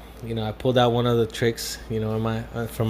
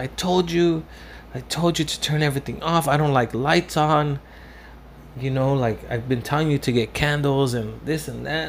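higher-pitched imitation of an angry woman; retold pissed-off scolding; 4 semitones higher than usual. Girlfriend scolding him over the lights, retold as pissed off. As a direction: imitate her telling you off, voice raised in pitch. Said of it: "she got fucking pissed at me".

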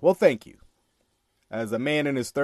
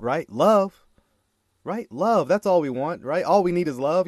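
mock sweet voice; 2 semitones higher than usual. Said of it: "I want you to hear the love, the care, and concern in my voice".

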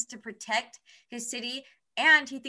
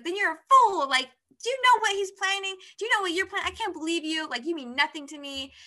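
indignant retelling of a betrayed heroine; angry retort; 6 semitones higher than usual. Retold or imitated. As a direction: tell him off in a mock fury. Cassie confronts Jace, voiced.

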